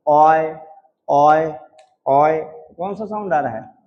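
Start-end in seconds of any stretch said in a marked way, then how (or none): 0.1-2.4 slow, separated ओय with a clear glide into य; demonstrated diphthong ओय. Shown as a demonstration. Teacher asking which sounds are heard, demonstrating ओय. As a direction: sound out ओय, projected, one at a time. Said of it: "ये बोलेंगे ओय".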